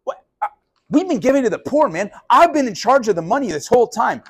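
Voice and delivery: squeaky outraged complaint; indignant whine. Retold or imitated. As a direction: play a self-righteous treasurer who feels robbed. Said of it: "he's like".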